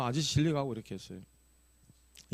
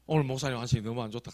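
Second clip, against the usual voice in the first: concerned deacon; 2 semitones lower, 3 dB quieter, faster than usual. Retold or imitated. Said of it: "하면서 하시더라고요".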